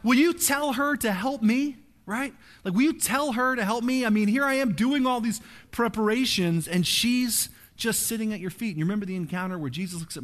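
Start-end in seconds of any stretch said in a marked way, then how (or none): 0.0-1.8 mock annoyed Martha. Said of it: "Martha's really mad and she looks at Jesus". 2.7-8.7 mock annoyed Martha. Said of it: "Martha's really mad".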